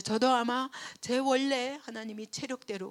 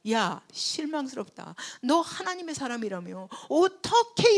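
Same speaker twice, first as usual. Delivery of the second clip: mock angry Abimelech; 5 semitones higher, 7 dB louder than usual. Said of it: "막 이러고 따졌어요".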